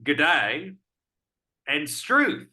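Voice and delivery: a hint of Aussie on good day; lightly put-on Aussie greeting; Australian accent. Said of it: "briefly lapse into the vernacular".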